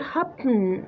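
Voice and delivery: "happen" with the schwa dropped, B running straight into N; syllabic N. Shown as a demonstration. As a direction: say "happen" as hap-n, no vowel before a held N. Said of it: "راح يلتصق بال N".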